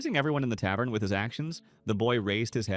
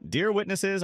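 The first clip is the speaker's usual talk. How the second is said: high, loud call to the room; young man shouts to the tavern crowd, loud and high; 9 semitones higher, 4 dB louder, slower than usual. Acted. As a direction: announce it loudly to the witnesses. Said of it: "the young man shouted".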